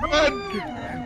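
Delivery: very high terrified shriek; panicked squeal. Real, not acted. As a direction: scream it in panic. Monster chasing, fleeing.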